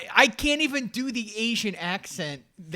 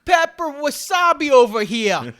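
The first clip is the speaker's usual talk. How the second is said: high, put-on chef voice; hammed-up menu barker; mock pitchman; 9 semitones higher than usual. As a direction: hawk it like the billboard guy.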